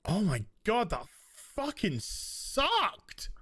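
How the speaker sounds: waking up horrified at the film; groggy disgust. Retold or imitated. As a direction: stretch sucked in slow dismay. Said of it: "waking up next morning and being like".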